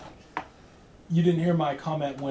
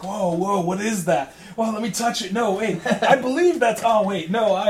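excited gawking; 4 semitones higher, 5 dB louder than usual. Pretend. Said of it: "I just imagine four guys".

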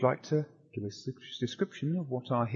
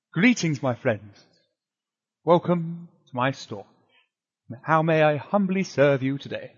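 a lightly voiced Pendragonic shopkeeper accent, louder and welcoming; humble shopkeeper greeting with a Pendragonic tilt; mild Pendragonic shopkeeper voice; 3 semitones higher, 5 dB louder, slower than usual. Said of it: "his accent showing a distinct Pendragonic tilt".

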